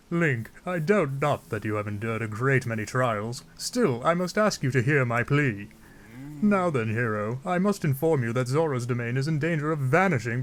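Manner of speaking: theatrical monarch making a plea; stately king. Acted. King asks Link to save Zora's domain, stately plea. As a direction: declaim gravely as a put-on ruler.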